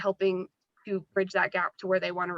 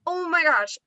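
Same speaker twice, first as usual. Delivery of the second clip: mock surprise, pitched high and stretched; surprised reply; 9 semitones higher, 4 dB louder than usual. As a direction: act out a sudden "oh no, I missed it". Retelling a recruit's surprised reply.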